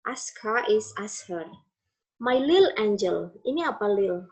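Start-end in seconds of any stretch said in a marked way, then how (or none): 2.2-3.4 "little" shortened to lil; elided "lil". Shown as a demonstration. Teacher demonstrating elision to students, "little" said as lil. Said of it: "Tapi lil".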